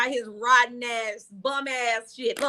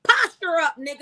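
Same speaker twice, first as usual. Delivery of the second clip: mad egging-on; 3 semitones higher, 3 dB louder than usual. Acted. Woman urging her too-calm friend to cuss someone out, worked up. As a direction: coach him to go off. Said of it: "I get mad about it 'cause I be like".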